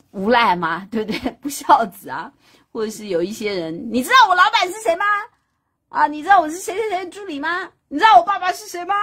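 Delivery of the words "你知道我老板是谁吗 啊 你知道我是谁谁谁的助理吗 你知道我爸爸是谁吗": high, loud, fast bragging; mock entitled brag. Mocking bullies who name-drop, high loud fast brag. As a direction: puff up like a bully name-dropping.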